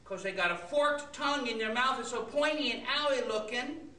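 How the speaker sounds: put-on fast, babbling kid voice; rambling child. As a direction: chatter like a little kid. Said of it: "saying things like".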